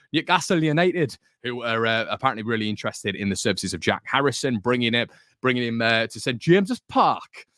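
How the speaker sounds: a hint of a Newcastle accent; Geordie accent. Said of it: "what do you think of my Geordie accent there".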